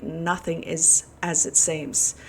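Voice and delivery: "nothing is as it seems" said slowly, each word weighed; slow emphatic repeat. Real, not acted. To viewers, insisting the world is a lie, slow and emphatic. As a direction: land the warning word by word. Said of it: "I repeat".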